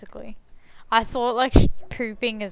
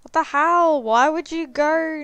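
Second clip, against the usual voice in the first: high, loud shocked outburst; 6 semitones higher, 7 dB louder than usual. Real, not acted. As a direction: blurt it out in disbelief. Reacting to the game.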